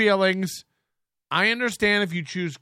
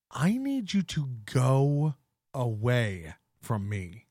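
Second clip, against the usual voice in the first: low, soft, menacing; 6 semitones lower, 5 dB quieter than usual. Acted. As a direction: drop low and quiet. Mock stern lecture to chat.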